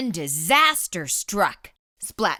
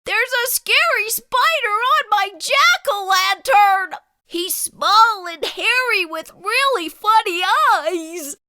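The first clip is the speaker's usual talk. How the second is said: high, louder worried kitten voice; worried wobble; 14 semitones higher, 7 dB louder than usual. Acted. Splat telling mom about the spider, high and worried. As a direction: squeak it out, fretting about the spider. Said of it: "Splat's voice wobbled with worry".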